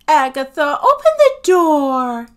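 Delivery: loud, high, urgent demand; urgent alarm. A narrator's reading. Sophie begs entry as the cat attacks, alarmed. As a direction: cry out to be let in right now.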